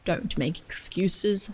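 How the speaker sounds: put-on slow, stern guard scolding a child; a stern railway guard, slow; gruff guard. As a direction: put the little girl in her place.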